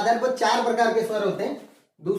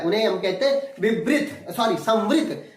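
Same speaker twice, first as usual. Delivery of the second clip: laughing correction. Real, not acted. Laughs at own slip.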